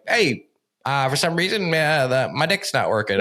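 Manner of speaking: a lightly voiced sheepish admission, pitch jumping up at the start; sheepishly confessing in a goofy voice; silly put-on voice. To a partner, admitting trouble in a goofy voice. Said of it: "I don't know why I said in that voice".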